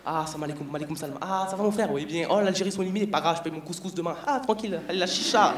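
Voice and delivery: Arab barber greeting. Retold or imitated. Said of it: "dire bonjour comme ça".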